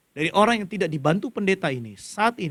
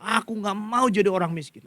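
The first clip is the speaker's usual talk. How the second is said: mild mock crying, pitched higher; retold tearful resolve; 5 semitones higher than usual. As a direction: lightly imitate a child's tearful vow. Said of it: "Setiap jalan dia nangis. Dia bilang". (menirukan tekad anak yang menangis, sedikit meninggi)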